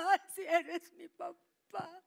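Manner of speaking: mother crying out in joy. Retold or imitated. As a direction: cry out as if you found your father. Mother overwhelmed, recognizing father.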